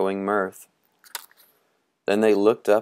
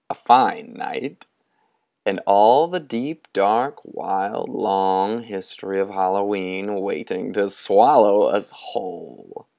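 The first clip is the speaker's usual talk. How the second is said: a touch of a night church sermon; sepulchral voice. Acted. Moundshroud promising the boys dark history, sepulchral. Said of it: "giving a full sepulchral night church sound".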